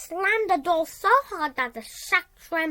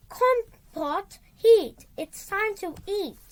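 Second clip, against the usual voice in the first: a bossy warlock calling to his pot, a bit higher; warlock crying out; 5 semitones higher than usual. Acted. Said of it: "the warlock cried".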